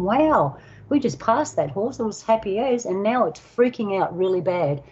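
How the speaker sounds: mild acted "wow" of disbelief; amazed reaction. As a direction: relive the startled thought, starting high. Acted startled thought about horse.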